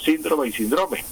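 "síndrome" first as SÍN-dro-me, then as sin-DRO-me; contrasting stresses. Shown as a demonstration. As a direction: shift the accent in "síndrome" from first to middle syllable. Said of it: "utilizan los dos".

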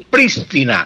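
"prístina" with a clear stress on PRÍS; esdrújula stress. Shown as a demonstration. Professor sums up the correct form, "prístina" stressed on first syllable. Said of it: "palabra esdrújula".

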